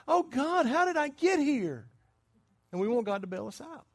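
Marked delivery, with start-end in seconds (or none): 0.1-1.9 high-pitched cry for help to God; mock panicked plea. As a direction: play the desperate debtor, hammed up. Acts the buyer's panicked prayer.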